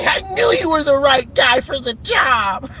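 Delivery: mock gleeful fan. Imitating fan praising commissioner.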